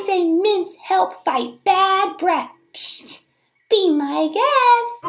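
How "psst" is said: a quick unvoiced psst; whisper. Narrator whispering a tip to the squirrel.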